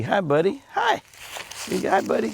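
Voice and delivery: hushed, gentle hello to a skittish buck; soft greeting. Real, not acted. Greeting a wary buck in the woods, hushed and gentle. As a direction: whisper it so he won't spook.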